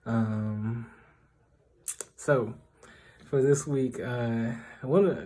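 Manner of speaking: echoing stairwell sound; talking in an echoey stairwell; hallway echo. Real, not acted. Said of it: "sorry for the echo".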